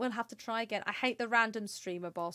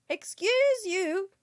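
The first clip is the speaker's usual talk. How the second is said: mock offended; 7 semitones higher, 5 dB louder, much slower than usual. Scolding chat for table flipping.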